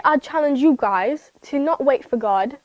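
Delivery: accidental, slightly drawn-out British accent. Real, not acted. Youth teacher challenging the kids, accidentally slipping into a British accent. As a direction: slip lightly into a British accent. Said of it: "I just went into a British accent".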